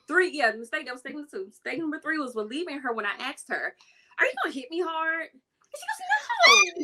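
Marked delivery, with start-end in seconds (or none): 4.2-5.3 put-on high, quick, naive kid asking; an eleven-year-old asking her opponent, high and quick; timid kid question. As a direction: ask it wide-eyed and worried.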